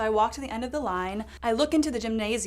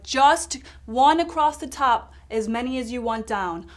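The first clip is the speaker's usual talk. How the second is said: European man instructing; 2 semitones higher, 6 dB louder than usual. Retold or imitated. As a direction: lay out the rule like a fussy official. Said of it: "he's like".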